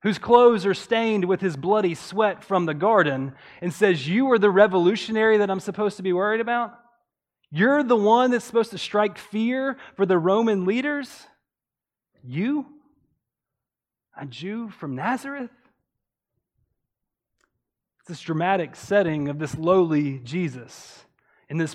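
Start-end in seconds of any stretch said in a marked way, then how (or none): 4.1-15.5 fast, scornful disbelief with the word You punched; proud governor mocking a laborer; incredulous Pilate. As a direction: sneer down at a lowly prisoner. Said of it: "it's emphatic because he's looking at this person".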